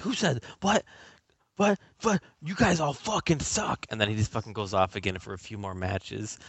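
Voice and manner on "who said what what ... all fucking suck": high-pitched mock indignation; squawking, offended comeback; indignant retort. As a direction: imitate a riled trash talker, voice jumping up. Acting out the angry trash talker.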